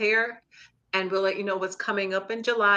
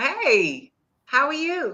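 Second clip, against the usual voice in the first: surprised, caught off guard, pitched-up "hey"; 5 semitones higher than usual. Guest greeting the host on joining the show, sounding surprised. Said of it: "I sound surprised, don't I?".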